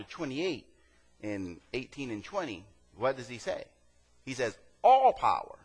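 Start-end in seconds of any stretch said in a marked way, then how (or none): 4.8-5.6 high, loud proclamation; Jesus declaring all power, high and loud; proclaiming. Acted. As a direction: ring it out like a royal decree.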